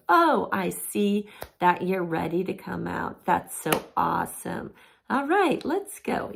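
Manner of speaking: mock-enthusiastic parent; praising parent. Shown as a demonstration. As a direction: cheer the child on. Praising child leaving timeout.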